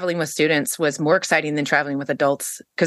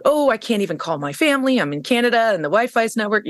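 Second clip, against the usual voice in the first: mock complaint, pitched higher; victim mode; 3 semitones higher than usual. Stranded traveler listing her woes, mock victim mode. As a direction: lightly imitate your own poor-me moaning. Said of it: "I was in victim mode".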